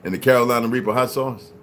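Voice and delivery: talking through a burning mouth; hot food, panting between words; mouth on fire from spicy food. Real, not acted. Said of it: "My mouth is on fire".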